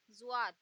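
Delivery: ज्वाद with z blending into a d; zwad sound. Shown as a demonstration. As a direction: say ज्वाद, z and d mixed. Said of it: "दा को mix किया जाता है".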